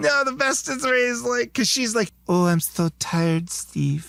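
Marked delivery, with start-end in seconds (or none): 2.3-4.1 put-on imitation of a woman's voice. Retelling a scene from a film, imitating the woman character's voice. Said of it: "she's got that kind of, like, voice".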